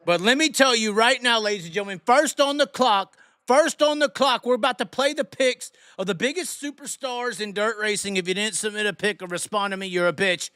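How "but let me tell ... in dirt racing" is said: showman announcer. Acted. Host announcing who is first on the clock, showman hype. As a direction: hit it like a draft-night announcer.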